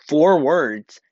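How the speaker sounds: whisper. Retold or imitated. Whispering his own quoted words.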